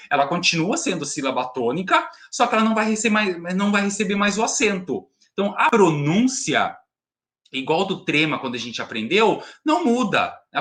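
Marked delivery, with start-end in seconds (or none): none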